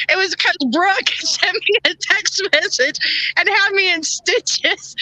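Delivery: words stretched slow through giggles; laughing while talking. Real, not acted. Host explaining why she cracked up, laughing through it. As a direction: tell it while still laughing. Recalling a funny text.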